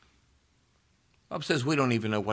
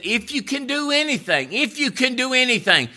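desperate father pleading; 14 semitones higher, 6 dB louder than usual. Retold or imitated. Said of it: "The man said".

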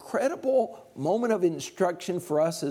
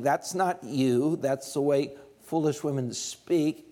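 gentle; 2 semitones lower than usual. Acted. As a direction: ease it out gently to her. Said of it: "He was gentle in saying".

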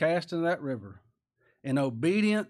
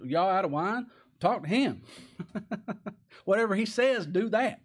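Mary at the wedding; 6 semitones higher, 4 dB louder than usual. Retold or imitated. Mary telling servants at Cana.

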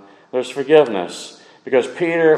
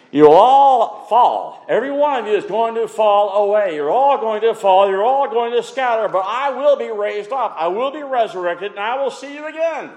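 raised, emphatic proclamation; preached quote of Jesus; 9 semitones higher than usual. Acted. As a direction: proclaim the prophecy with rising insistence. Voicing Jesus foretelling the fall.

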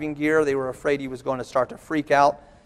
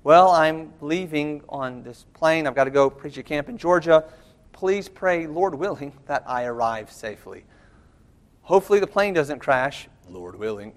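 mock hedged request. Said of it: "I never say to my wife".

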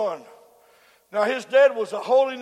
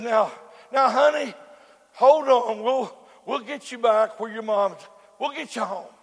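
gentle reassurance. Retold or imitated. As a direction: hush a frightened little girl kindly. Policeman comforting a lost crying girl.

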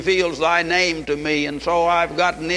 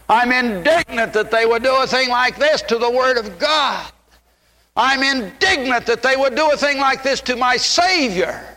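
building higher with each repeat; rising indignation; 5 semitones higher than usual. Acted. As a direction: climb in pitch line by line, indignant. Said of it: "he said".

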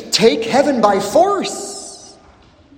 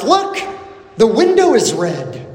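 mild mock shout. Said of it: "Somebody shouts".

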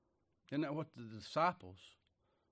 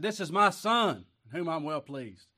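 booming voice of God; 3 semitones higher, 8 dB louder than usual. Acted. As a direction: announce it like heaven speaking. Voice of God from heaven.

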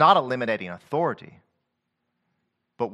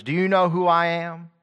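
arrogant; 3 semitones higher than usual. Retold or imitated. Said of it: "says to others".

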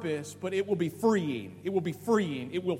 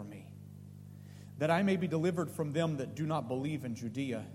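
low, soft Bible reading; subdued, measured reading of an epistle; scripture reading; 6 semitones lower, 4 dB quieter than usual. Acted. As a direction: read the verses aloud solemnly, dropped in pitch and level. Reads the scripture passage aloud.

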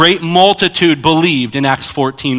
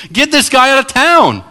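angry demand; 11 semitones higher, 4 dB louder than usual. Retold or imitated. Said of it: "He goes".

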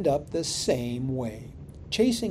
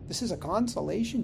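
"consolation" rises high, quick and disbelieving; incredulous; 4 semitones higher, 4 dB quieter, faster than usual. Retold or imitated. Imagined congregant doubting the pastor, incredulous rise. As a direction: ask it fast as if you can't believe it. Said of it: "Did you just say that, Pastor?".

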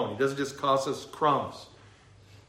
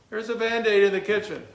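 mom yelling back; 8 semitones higher, 4 dB louder than usual. Retold or imitated. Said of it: "And she yells".

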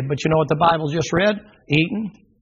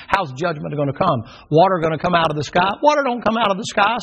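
scoffing scientist. Retold or imitated. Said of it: "says the scientist and the philosopher".

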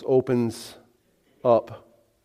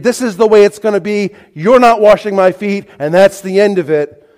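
loud, raised, final refusal; firmly persuaded; 6 semitones higher, 8 dB louder than usual. Acted. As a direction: shut the discussion down forcefully. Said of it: "He's persuaded".

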